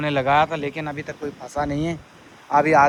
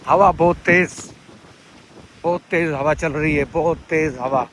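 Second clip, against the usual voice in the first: shouting over wind; 5 dB louder than usual. Real, not acted. Talking in strong wind.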